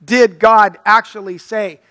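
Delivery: a light hint of the serpent's sneer; Satan's question. Preacher voicing Satan questioning God's word, slow and sly. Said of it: "Satan fires two darts".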